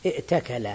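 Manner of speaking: ائتكل as i'takala, glottal stop before t; hamza kept. Shown as a demonstration. Teacher derives it from eating, ائتكل with audible hamza. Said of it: "فتقول في افتعل من الأكل".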